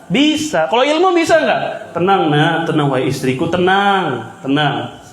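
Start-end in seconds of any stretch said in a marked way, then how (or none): 2.0-5.0 lower, gently hammed-up reassurance; mock soothing husband. Mocking husband who promises knowledge by a touch, mock soothing. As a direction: pretend to hush them like a fake sage.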